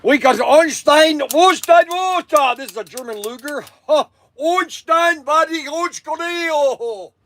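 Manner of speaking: high mock German accent shouting a name; a hammed-up, high mock German accent. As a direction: bark the name like a cartoon German officer. Showing a German Luger.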